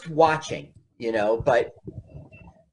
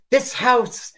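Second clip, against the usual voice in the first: high, gushing sales pitch climbing ever higher; mock-dramatic realtor rising much higher; 11 semitones higher, slower than usual. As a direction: oversell the house like a swooning realtor, slowing at the end. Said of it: "now she's going".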